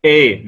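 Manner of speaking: إيه said like English A, between آ and إي; strong imala. Shown as a demonstration. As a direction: lean alif toward ya, as in English A. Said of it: "هو هكذا". (إيه بإمالة شديدة كحرف A الإنجليزي)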